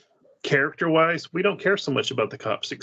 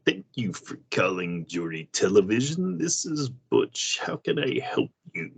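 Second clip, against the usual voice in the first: imitating Charlton Heston. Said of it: "a bad impersonation of Patrick's impersonation".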